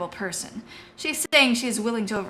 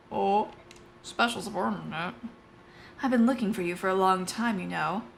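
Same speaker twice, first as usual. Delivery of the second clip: lightly voiced knight banter; a hint of two characters reuniting; voiced game dialogue; 3 semitones higher than usual. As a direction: read both knights with mild character. Reading Marcia and Tanith support.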